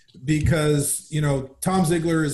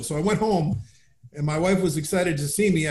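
usual speaking voice

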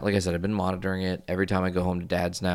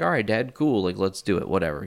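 faux casual. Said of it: "You know, I'm super calm".

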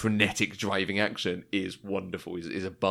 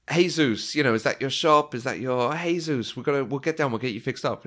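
higher, lively mock voice of the character; acted character quote; 4 semitones higher than usual. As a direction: rattle it off as the excited character. Retold character talking in taxi.

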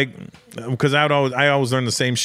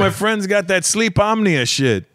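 higher mock of clumsy English, slow on the last line; "sleep omnia" stretched out like a learner; Antonio's broken English; 8 semitones higher than usual. Mocking Antonio's garbled talk about a friend's insomnia, slowed. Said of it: "Antonio's English is hilarious".

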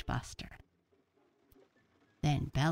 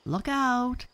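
high, loud call; loud warning; 11 semitones higher, 7 dB louder than usual. Pretend. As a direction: shout the warning playfully. Bella warns as T-Rex.

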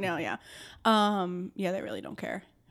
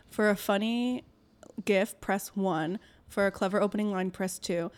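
phone menu voice. Retold or imitated. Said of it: "The line is".

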